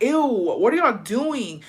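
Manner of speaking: high, drawn-out retold disgust; grossed out. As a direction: recoil with a long, high "ew". Retold reaction to catching them kissing.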